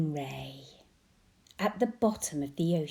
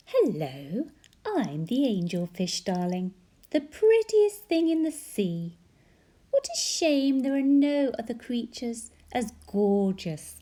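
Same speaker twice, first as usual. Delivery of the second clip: vain angelfish; 3 semitones higher, 6 dB louder than usual. Acted.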